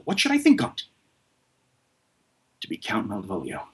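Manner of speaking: Shakespeare read as a self-important steward, savouring each thought; pompous butler daydreaming aloud; a haughty servant musing on his lady's love; Malvolio soliloquy. Acted. Performs Malvolio speech from Twelfth Night.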